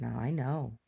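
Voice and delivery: even, restrained reproach; calm talking-to. Retold or imitated. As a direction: explain it calmly, like a patient mother. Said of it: "I just talked to him real calmly".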